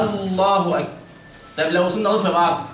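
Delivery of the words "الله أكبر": الله أكبر starting on light open hamza; model recitation. Shown as a demonstration. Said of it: "يعني هنا تقول إيه؟". (همزة مفتوحة مرققة)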